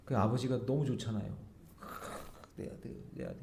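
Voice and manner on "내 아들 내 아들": very soft, voiceless whisper; hushed fatherly murmur. Acted. Father to his returning prodigal son, hushed whisper.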